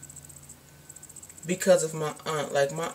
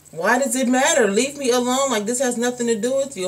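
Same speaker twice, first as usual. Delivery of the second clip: raised, irritated comeback; annoyed retort; 5 semitones higher than usual. Retold or imitated. Answering nosy people, annoyed and raised. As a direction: snap back at the gossiping relatives.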